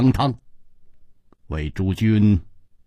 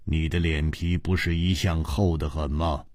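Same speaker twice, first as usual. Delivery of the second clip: relaxed, softer teasing tone; leisurely; 8 semitones lower, 7 dB quieter than usual. Acted. Teasing Hu Tiehua about his thick skin, leisurely. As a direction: tease him calmly and unhurried. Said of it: "悠然说".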